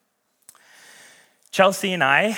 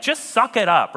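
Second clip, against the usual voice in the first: louder, higher brush-off; dismissive; 8 semitones higher, 6 dB louder than usual. Retold or imitated. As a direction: toss off the advice carelessly. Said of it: "you're like".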